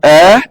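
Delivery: "ए" said in full as its own sound; teacher's complete, separate "ए"; fully sounded vowel. Shown as a demonstration. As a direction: give "ए" its whole value, held out. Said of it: "पूरा पूरा ए बोल रहे हैं".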